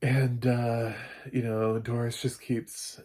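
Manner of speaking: ordinary delivery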